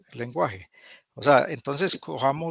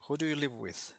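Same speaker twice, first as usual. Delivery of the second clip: softer, patient repeat of the question; 3 semitones higher, 5 dB quieter than usual. Shown as a demonstration. Teacher repeating for a hesitant student, softer. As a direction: say it again gently and quietly.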